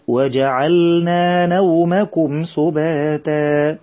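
very slow chanted recitation, doubled meem held; Quran recitation. Shown as a demonstration. Teacher models the verse for children, slow chanted recitation. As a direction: chant it slowly as in tajweed class.

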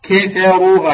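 "كفروا" with thin "ka", then a full "ru"; light kaf, heavy ra. Shown as a demonstration. Teacher models the word for students, light kaf and heavy ra. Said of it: "الكاف رققة، تقول".

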